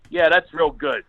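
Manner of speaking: mildly sarcastic announcer; dry mock praise over the PA; announcer with attitude. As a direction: imitate a fed-up announcer. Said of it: "an attitude".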